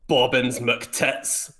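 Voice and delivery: a hint of a Scottish accent on Bobbins McTits; asked to demo, a light Scottish accent. Shown as a demonstration. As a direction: lightly try the name in Scottish. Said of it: "Could, could you demonstrate?".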